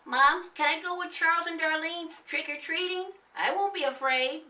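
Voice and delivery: put-on high, eager child's plea; a little boy bursting to ask; boy exclaiming. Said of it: "the boy exclaimed".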